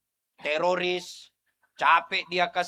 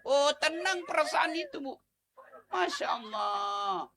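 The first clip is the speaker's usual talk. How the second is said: ordinary talk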